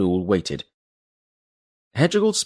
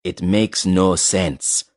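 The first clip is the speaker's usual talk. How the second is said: furious; 2 semitones lower, much slower than usual. Acted. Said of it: "said the lover furiously".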